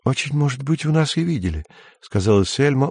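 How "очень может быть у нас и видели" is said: seductive smile. A narrator's reading. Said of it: "улыбаясь обольстительно".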